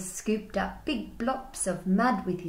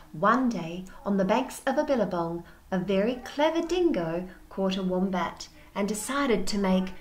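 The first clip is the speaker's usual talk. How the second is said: lively read-aloud voice, slowing at the end; storybook blurb read. Acted. Teacher reading the blurb to her class.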